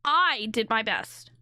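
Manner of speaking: slowish "I did my best", weight on "I"; mimicking stress on I. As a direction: echo his pointed "I". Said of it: "listen to the inflection on that".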